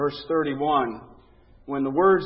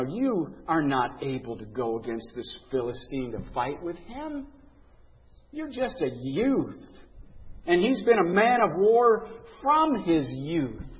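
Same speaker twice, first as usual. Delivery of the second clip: despising. Retold or imitated. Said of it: "You know, despising him".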